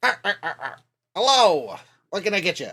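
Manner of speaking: crab shopkeeper voice, pitch swooping and swinging around. Speaker greeting a customer as part of a bit, in a Mr. Krabs voice. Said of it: "can I counter your mister Krabs".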